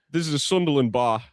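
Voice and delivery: badly done Irish accent, drifting British; a poor stab at an Irish bartender; attempted Irish accent. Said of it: "in an Irish accent, I can't do an I-, Irish accent".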